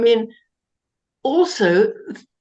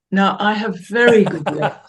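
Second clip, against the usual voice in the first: laughing; 4 dB louder than usual. Real, not acted. Jokes about legs, laughing.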